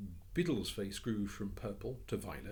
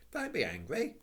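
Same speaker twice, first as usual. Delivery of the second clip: soothing; 9 semitones higher, 5 dB louder than usual. Acted. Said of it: "said Anthea soothingly".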